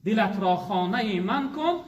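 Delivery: slow, measured poem recitation; reciting a Persian verse in a sermon, slow and lilting; recited verse. Acted. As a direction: intone the couplet slowly like poetry. Verse recited before explaining it.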